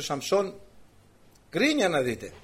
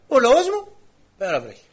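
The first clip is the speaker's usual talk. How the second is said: higher and louder, lamenting; preacher's raised cry; raised exclamation; 6 semitones higher, 7 dB louder than usual. Real, not acted. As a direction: call out my people in dismay. Quoting Isaiah, exclaiming.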